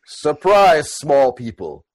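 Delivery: lightly voiced slow, broken-speech orc; a hint of a ponderous orc making an entrance; Boom Boom. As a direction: announce yourself in slow, simple speech. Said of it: "take the robe off and go".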